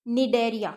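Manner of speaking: Cnidaria with the C silent, starting on an N sound. Shown as a demonstration. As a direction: say Cnidaria as "ni-DAIR-ia", no C. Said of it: "सी इसमें silent है". (Cnidaria में C silent, "निडेरिया")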